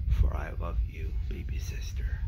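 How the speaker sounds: dying sister whispering goodbye to her sibling. Retold or imitated. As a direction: fade out on the last words. Dying sister's last words.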